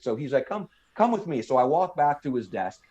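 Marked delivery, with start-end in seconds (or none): 0.5-1.4 lightly mimicked Southern drawl, pitched up. Clerk leading recruit back to his desk, mock Southern drawl. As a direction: beckon in a put-on Southern drawl. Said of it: "that Southern drawl accent".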